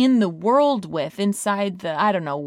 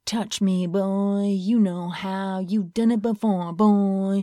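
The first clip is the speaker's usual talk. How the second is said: imitating daughter's game voice; much slower than usual. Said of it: "she's got a deeper voice".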